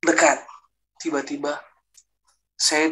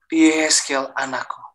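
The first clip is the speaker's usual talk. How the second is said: slow, drawn-out call to a son; calling divine voice; slower than usual. Retold or imitated. Heavenly voice calling the man as son, slow call. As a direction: stretch out the name as an imitated calling voice. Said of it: "suara itu memanggil saya gitu".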